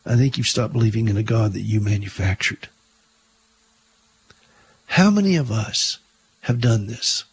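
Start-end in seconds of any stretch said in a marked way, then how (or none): 0.0-2.7 lightly voiced gentle psychiatrist. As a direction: soften it a touch, like a kind doctor. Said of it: "Then he said very gently".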